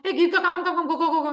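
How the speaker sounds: chirpy hustling with a laugh; rushing a friend at a funeral, laughing; too lively. Shown as a demonstration. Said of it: "You're not gonna talk like this".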